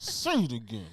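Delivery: half-laughing threat through teeth; through gritted teeth. Acted. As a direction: teeth clenched, mock menace. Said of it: "I'm talking through my teeth".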